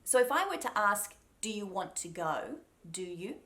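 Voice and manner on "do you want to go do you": "Do you" as two clear words; "Do you want to go" with words kept apart; unmerged words. Shown as a demonstration. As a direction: keep the D clean in "Do you". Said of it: "I could say that".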